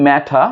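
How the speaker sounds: 'matter' with a real t and no final r; British pronunciation. Shown as a demonstration. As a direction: say 'matter' as MAT-uh. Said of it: "British বলে".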